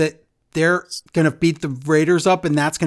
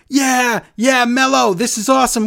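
higher, louder, forced cheerful party voice; mock excitement; 8 semitones higher, 6 dB louder than usual. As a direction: fake enthusiasm for a wild uncle. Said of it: "You're gonna be like".

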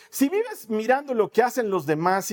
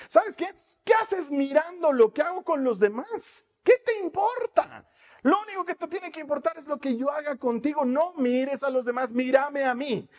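Jesus; 5 semitones higher than usual. Acted. Jesús confronta al oyente.

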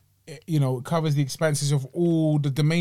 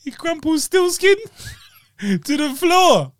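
high, drawn-out mimicry of the slip; mocking imitation; 12 semitones higher, 4 dB louder, slower than usual. Teasing co-host over his botched wordplay, high drawn-out mimicry. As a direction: stretch it out high and loud, mocking. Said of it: "Man goes, he".

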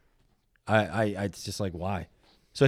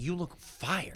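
soft, higher-pitched hushed praise; quiet; 7 semitones higher, 9 dB quieter, much slower than usual. Retold or imitated. Repeating a friend's praise before the set, quiet. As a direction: keep it small and quiet, pitched up. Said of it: "I thought that was gonna be louder".

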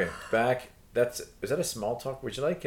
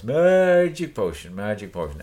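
witch voice; 5 dB louder than usual. Retold or imitated. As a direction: chant it like a stirring witch. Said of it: "the witch voice".

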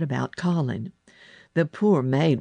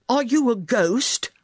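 put-on high, loud, startled boy; alarmed question; 8 semitones higher, 5 dB louder than usual. A narrator's reading. Boy to the girl in his doorway, alarmed and loud. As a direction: blurt it out in alarm. Boy takes intruder for a ghost.

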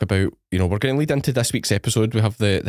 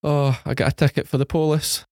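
put-on Fife accent; 5 semitones higher than usual. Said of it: "She's got a Fife accent".

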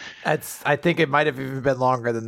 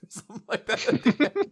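ordinary delivery

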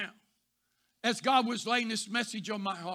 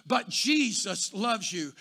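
slow tender assurance; 4 semitones lower, slower than usual. Retold or imitated. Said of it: "I didn't change the inflection of my voice".

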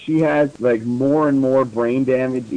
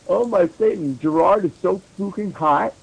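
high, hammed-up gush; overacted fangirl excitement; mock fangirl squeal; 5 semitones higher than usual.

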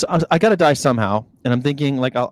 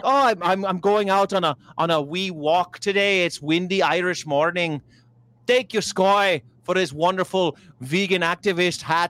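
put-on Irish accent; 3 semitones higher than usual. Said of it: "he's like".

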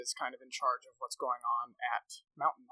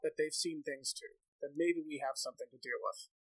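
a hint of a cautious village elder, a bit higher; lightly voiced elder Ingomer; 3 semitones higher than usual. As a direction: sound like a wary elder doubting the warning.

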